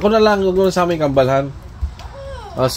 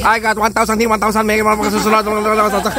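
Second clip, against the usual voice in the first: auctioneer; 3 semitones higher than usual. Pretend. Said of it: "Kala ko bidding".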